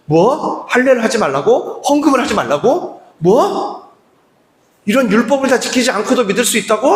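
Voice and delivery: mock-outraged crowd reacting; indignant disbelief. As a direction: echo it back in scandalized disbelief. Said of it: "유대인들이 난리가 난 거예요".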